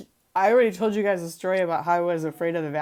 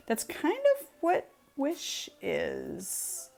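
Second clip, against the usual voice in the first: whisper; 8 semitones higher, 8 dB quieter, much slower than usual. Real, not acted. Confiding aside about Wish.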